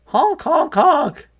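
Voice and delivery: high, loud goose honk; honking geese. A narrator's reading.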